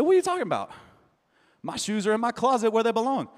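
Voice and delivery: mock-indignant husband protesting; indignant surprise. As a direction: act genuinely puzzled at the accusation. Husband retorting indignantly to wife.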